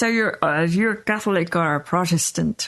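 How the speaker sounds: put-on Northern Irish accent. Belfast shopkeeper questioning a customer, in a light Northern Irish accent. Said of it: "Right, in their accent".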